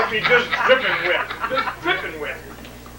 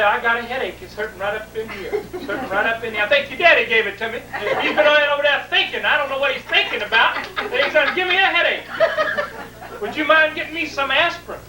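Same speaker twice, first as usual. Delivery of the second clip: complaining mother; 4 semitones higher than usual. Retold or imitated.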